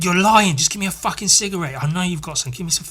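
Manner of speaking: retold angry accusation, words tumbling out; aggressively angry. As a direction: imitate someone aggressively demanding and accusing. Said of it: "she was, like, aggressively angry".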